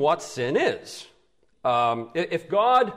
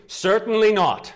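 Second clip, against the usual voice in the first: higher-pitched, forceful rejection; emphatic denial; 5 semitones higher, 4 dB louder than usual. Acted. Preacher gives Paul's answer about the law, emphatically. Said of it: "he answers emphatically".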